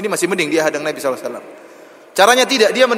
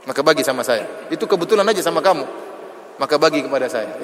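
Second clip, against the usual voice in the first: mock rude demand. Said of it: "kalau kita bilang".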